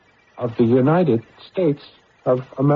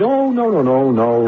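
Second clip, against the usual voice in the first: a frantic cover-up; flustered denial; 2 semitones higher than usual. Acted. Man hastily refusing the agent's help.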